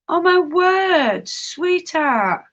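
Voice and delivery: high, drawn-out sympathy; sympathetic dismay. Real, not acted. Fussing over a sweetheart, high sympathetic dismay. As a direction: coo it slowly, pitched high with concern. Reacting to someone's mishap or ailment.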